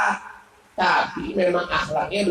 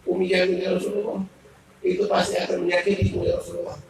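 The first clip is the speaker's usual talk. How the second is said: sad worry; faster than usual. Acted. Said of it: "Abu Bakar sedih".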